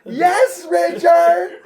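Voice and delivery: high, loud theatrical reply; drama queen. Retold or imitated. Coworker answers him, hammed-up theatrical shout. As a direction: answer like a movie star on stage. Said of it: "Like, drama. She thinks she's a fucking movie star".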